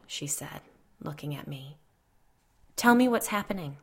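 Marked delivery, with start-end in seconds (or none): 2.7-3.8 higher, louder plea; urgent, mildly pleading tone. A narrator's reading. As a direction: plead for an explanation. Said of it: "Kate pleaded".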